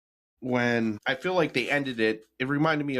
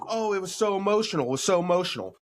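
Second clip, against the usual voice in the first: mock gushing; 7 semitones higher, faster than usual. Mocking viewers' gushing reaction.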